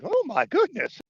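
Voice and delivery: mock shock. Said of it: "you'll be like".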